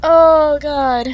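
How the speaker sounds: loud gasp while still laughing; laughing groan. Real, not acted. The reader still laughing at the punch scene, laughing groan. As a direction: let it out as the laughter fades. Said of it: "I'm crying".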